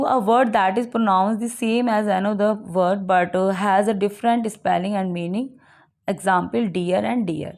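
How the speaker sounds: slow, deliberate reading from the book; slow reading aloud. Acted. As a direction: read it out word by word for the class. Reads English definition slowly. (किताब से धीरे-धीरे पढ़ना)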